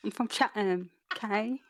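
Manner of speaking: put-on comic Chatham accent; Catherine Tate. Co-host parodying her friend's defence, comic Chatham accent. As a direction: put on an insistent Chatham local. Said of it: "You sound like Catherine Tate".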